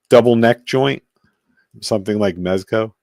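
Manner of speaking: hoarse, voice giving out; losing his voice. Real, not acted. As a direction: voice cracking and fading. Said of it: "am I losing my voice?".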